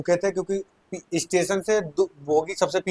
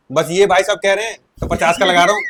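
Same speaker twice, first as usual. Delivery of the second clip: laughing; 2 semitones higher, 6 dB louder than usual. Retold or imitated. Vendor relenting, teller laughing.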